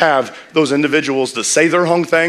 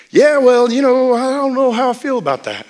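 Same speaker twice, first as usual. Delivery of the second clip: mock reluctant reply; 11 semitones higher, 4 dB louder than usual. Retelling reluctant member's reply.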